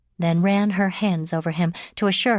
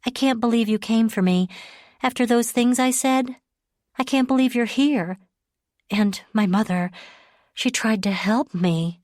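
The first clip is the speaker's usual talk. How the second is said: Leah's voice; 5 semitones higher than usual. Acted. Leah voiced higher.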